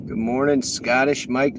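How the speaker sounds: lightly put-on Scottish accent, greeting a rider; broken Scottish accent. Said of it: "that's a horrible accent".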